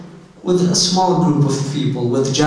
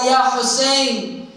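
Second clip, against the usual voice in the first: retold cry; 8 semitones higher, slower than usual. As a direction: mildly imitate a grieving man's yell. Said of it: "He began to yell".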